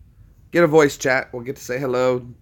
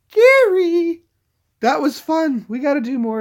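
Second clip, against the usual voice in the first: much higher, loud gushing over the caller; excited thanks; 7 dB louder than usual. Real, not acted. Streamer thanks caller after the call, high and excited. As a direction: beam it out, thrilled the call worked.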